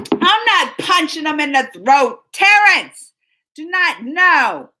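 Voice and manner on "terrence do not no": scolding call. Real, not acted. Scolding someone in chat.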